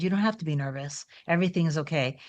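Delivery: lightly voiced calming words, said softly; retold reassurance. Man to nervous woman on sofa, soft mild reassurance.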